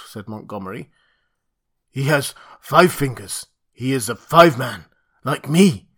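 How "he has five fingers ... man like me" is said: loud, lightly voiced ape-man; a hint of a proud ape-man. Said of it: "said the ape-man".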